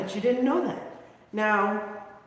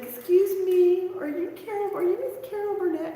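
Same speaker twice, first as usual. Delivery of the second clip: put-on child's voice; 10 semitones higher than usual. Child politely addressing Carol Burnett.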